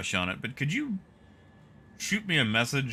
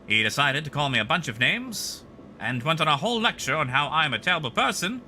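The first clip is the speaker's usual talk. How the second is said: put-on Mid-Atlantic accent; 2 semitones higher than usual. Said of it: "like a crappy Mid-Atlantic voice".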